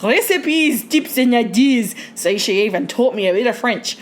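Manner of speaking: ad read in a mild put-on Australian accent; the caribou takes over the sponsor read, Australian accent. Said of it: "Grace, can you take over for me?".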